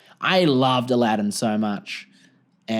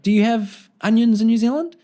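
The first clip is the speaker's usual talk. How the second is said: mock American question; 8 semitones higher, 5 dB louder than usual. American friend asks, quoted.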